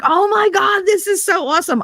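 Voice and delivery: high, gushing fake excitement; mock delight. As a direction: pretend to love the gag gift. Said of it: "I was like".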